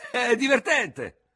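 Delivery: high, loud, drawn-out call. A narrator's reading. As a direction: call it out slowly. Surgeon's pet word from window.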